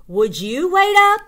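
put-on exasperated child whine; whiny kid call. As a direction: beg them to stop. Kid calling to friends.

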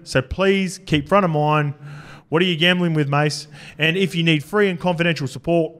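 measured public-service ad read; disclaimer read. Acted. Host giving listeners the responsible gambling message, disclaimer read. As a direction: read it out carefully, slowing for the contact details.

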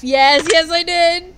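loud, slow, gleeful admission; excited yes. Real, not acted. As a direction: shout it out, delighted. Admits laughing at nun punch.

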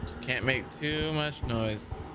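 hushed, frightened pleading; trembling whisper. Real, not acted. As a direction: beg quietly, scared stiff. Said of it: "I have to go quiet".

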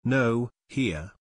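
mildly rasped reply. A narrator's reading. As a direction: answer with a touch of rasp. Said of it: "another rasped".

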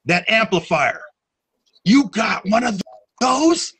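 a casual rocker asking about gear, put on a little; imitating Tim. Band member mimics the punk icon asking about his amp, lightly voiced.

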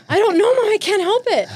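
put-on a guilty boy squeaking an excuse; mock kid answering mom; imitating her son. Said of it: "And I'm like".

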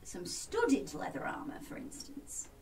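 soft whisper; whispered aside. Acted. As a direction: whisper it hopefully. Sly aside about better armour.

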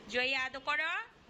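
a lightly voiced child slowly stretching Jaya আদর করো; imitating the child, drawn out. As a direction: mimic the little one, slowly dragging করো. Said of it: "যে আবার বলে".

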